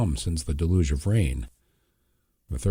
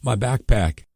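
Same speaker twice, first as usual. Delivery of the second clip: tearful; 5 semitones higher, 4 dB louder, slower than usual. A narrator's reading. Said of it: "he cried out through distressed tears".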